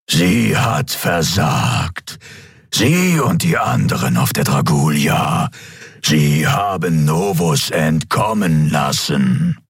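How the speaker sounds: slow, seething distorted emperor; menacing, slow, rising to a shout; seething shrieking spirit. A narrator's reading. (zornige, verzerrte Kaiserstimme)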